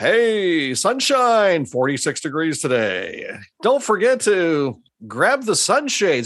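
swooping, cheesy 70s and 80s radio DJ patter. Showing how hosts talked on the radio back in the 70s and 80s, old-time radio dj voice. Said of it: "that's how they talked on the radio".

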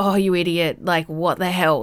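acted laughing while talking. Retelling a fall up the stairs, retelling laughing at oneself. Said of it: "at that point I'm laughing".

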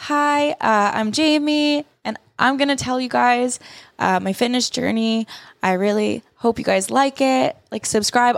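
hesitant, awkward beginner vlogger voice. Recalling his early YouTube fitness vlogs, imitating his old vlog voice. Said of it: "I hear it in my voice, how I speak. I'm like".

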